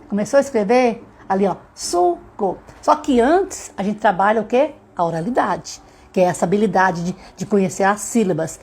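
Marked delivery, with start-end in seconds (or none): 1.7-2.6 "suco" high, split into su, co; syllable by syllable. Shown as a demonstration. Child writing sounds out the word, syllable by syllable. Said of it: "consciência dessa quantidade de sílaba".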